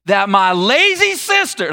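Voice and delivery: slow, pointed jab slipping out; restraint slipping. Acted. Martha complaining to Jesus about her sister, restraint slipping. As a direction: let the irritation leak through on the insult. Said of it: "she's trying to hold back".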